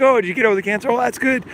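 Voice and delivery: mocking people who shrug off cancer; mock dismissive. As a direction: imitate people brushing it off. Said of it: "Most people don't notice anything".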